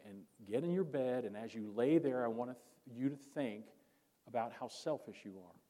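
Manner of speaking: mildly acted exasperated scolding; furious father. Father sending his son to bed, acted annoyance. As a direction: scold like a fed-up dad, without shouting. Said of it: "This made the father even more furious".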